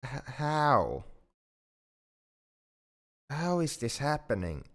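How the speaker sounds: high-pitched, stammered astonishment; stunned disbelief. Acted. Alien learns coworker loves them back, stunned disbelief. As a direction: start with a stutter, pitch up in bewilderment.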